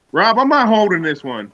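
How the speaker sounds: talking with a burning mouth; mouth on fire. Real, not acted. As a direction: mouth still burning from hot sauce. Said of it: "Corner of my mouth is still on fire".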